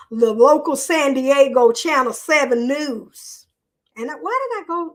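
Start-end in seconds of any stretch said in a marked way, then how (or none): 0.1-3.5 Southern country twang on the news line. Real, not acted. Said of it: "why did I make that a country twang?".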